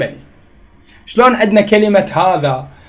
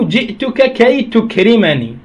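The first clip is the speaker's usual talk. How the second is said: slow, careful teacher's example; deliberate classroom example at a slow pace; slow example reading; slower than usual. Shown as a demonstration. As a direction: read the example slowly, word by word. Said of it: "نحو".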